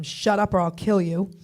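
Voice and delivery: loud, forceful warning; retold threat. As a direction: lay down the threat loudly. Retold threat to kidnapped cousin.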